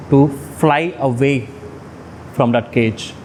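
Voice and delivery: slow, drawn-out declaration of freedom; dramatic escape speech. Acted. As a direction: stretch each phrase like an epic escape, with pauses between. Mock-epic account of escaping mother.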